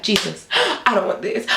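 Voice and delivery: high, drawn-out mock wail; retold panic. Rider told hands behind back, acting out panic. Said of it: "having the biggest panic attack".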